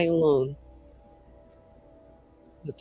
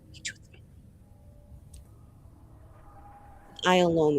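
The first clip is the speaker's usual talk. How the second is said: soft, measured mage speech; restrained defiance; 3 semitones lower, 8 dB quieter, faster than usual. Acted. Mage telling off someone over who decides their fate, quietly defiant. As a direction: keep the defiance low and contained. Player repeats mage's bitter speech.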